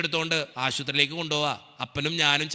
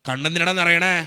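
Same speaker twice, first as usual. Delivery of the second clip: louder retold questioning; father's pointed, raised question; insistent father; 5 dB louder than usual. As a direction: press him for an answer, voice up. Father questioning his son.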